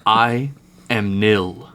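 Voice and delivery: slow, flat corpse voice; emotionless voice. Acted. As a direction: speak with no feeling at all. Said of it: "an emotionless voice emanating from inside".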